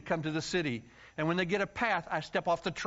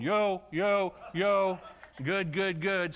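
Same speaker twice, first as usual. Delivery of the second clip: calling out yo; much slower than usual. Retold or imitated. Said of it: "I go around Hungary going".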